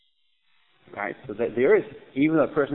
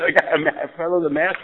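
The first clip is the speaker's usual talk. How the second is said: raised, loud panicked report; yelling in alarm; 4 semitones higher, 7 dB louder than usual. Retold or imitated. Baron reports the masked surgeon to police, alarmed yelling. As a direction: call it out urgently, pitched up. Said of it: "He starts yelling".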